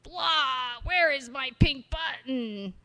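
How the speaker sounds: croaky put-on toad voice. Shown as a demonstration. Toad asking for his pink button, toad voice. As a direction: play the grumpy toad. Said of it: "The toad".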